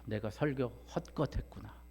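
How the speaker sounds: sighed, subdued dismay; retold lament. Preacher retelling a pastor's regret over his sermon, lamenting. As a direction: let out a soft mock lament. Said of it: "그 목사님이 한탄하셨대요".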